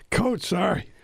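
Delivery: raspy voice catching after a throat clear; hoarse, cracking up high on the first word. Real, not acted. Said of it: "I got my coaching voice here".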